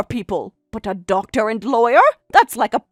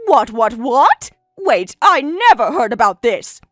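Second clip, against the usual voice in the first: flustered; 4 dB louder than usual. Acted. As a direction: stumble over the shock. Stunned by doctor and lawyer news.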